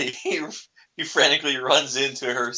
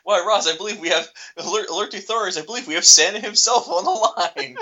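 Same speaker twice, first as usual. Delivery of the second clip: sarcastic; 6 semitones higher, 4 dB louder, faster than usual. Retold or imitated. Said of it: "Frasier sarcastically responds".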